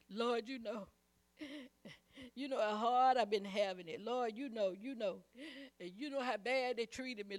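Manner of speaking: hammed-up complaining believer, quiet and pleading; mock whiny prayer.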